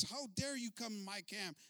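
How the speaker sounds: high, slow, indignant challenge; furious. Acted. Chief confronting the widow in his camp, furious. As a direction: draw it out high like an enraged chief. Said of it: "he's furious".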